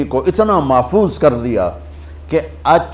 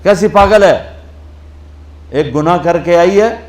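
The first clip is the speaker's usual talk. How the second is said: higher and louder outraged outburst; angry crowd; 3 semitones higher, 4 dB louder than usual. Retold or imitated. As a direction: erupt at her in indignation. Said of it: "تو غصے میں آ گئے".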